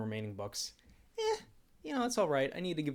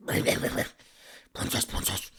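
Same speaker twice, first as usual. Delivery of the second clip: laughing princess; 4 semitones lower, 5 dB louder, much slower than usual. Shown as a demonstration. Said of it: "Say princess twice".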